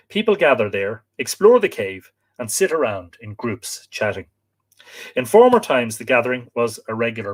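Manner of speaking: storytelling read with lifted phrase openings; reading aloud. Acted. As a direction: read out a local legend, phrase by phrase. Reads folklore account aloud.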